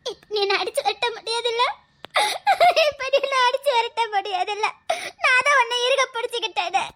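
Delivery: tearful laugh while teasing; laughing through tears. Acted. To her paralysed lover, laughing through tears as she holds him. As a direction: let joy and tears mix.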